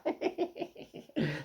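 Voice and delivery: real laugh. Real, not acted. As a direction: let the laughter tail off. Laughs after repeating punchline.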